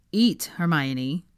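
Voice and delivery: slow, firm command; stern. Acted. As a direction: order her firmly to eat. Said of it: "he said sternly".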